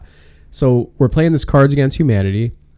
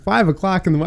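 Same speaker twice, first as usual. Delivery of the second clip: shocked disbelief; 6 semitones higher than usual. Retold or imitated. Retold shock at the hour.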